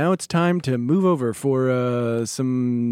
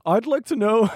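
slightly raised, mild put-on questioner; lightly imitated caller; 6 semitones higher than usual. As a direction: lightly voice an employee asking the boss. Voices a caller to company meeting.

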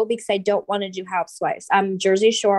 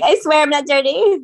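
higher, louder, pleading voice; mock defensive; 6 semitones higher, 4 dB louder than usual. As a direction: play it defensively, swearing innocence.

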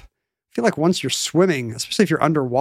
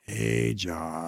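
whispered call; 8 semitones lower, 10 dB quieter than usual. Pretend. Sneaky aside to get attention.

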